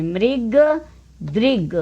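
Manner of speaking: मृग and दृग with a clear ri; mrig, drig, each said apart; ri-vowel drill. Shown as a demonstration. Teacher repeating ri-sign words, clear ri. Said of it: "यह हम री की मात्रा पढ़ रहे हैं".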